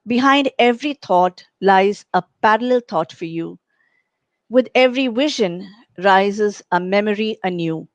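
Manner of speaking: measured poem reading with pauses between lines; poem recitation. Acted. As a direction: read your own poem out to the listeners, line by line. Reads own poem aloud.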